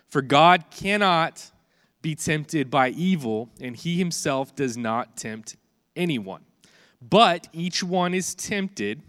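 slow, weighty Bible reading; scripture reading. Acted. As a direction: read each phrase slowly with weight. Reads James chapter one aloud.

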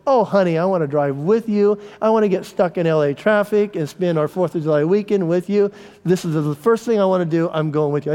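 a touch of sugary eagerness; mock-sincere offer to drive along; pretend sweet husband. Husband pretending to be the eager, devoted spouse, lightly sweet. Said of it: "I didn't say that".

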